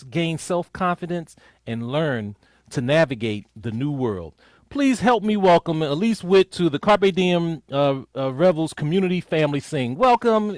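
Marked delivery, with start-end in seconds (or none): 4.7-10.6 louder, building to a high welcome call; announcer welcome. Real, not acted. Host introducing the guest singer to the audience, excited call. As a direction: bring her on like a show host.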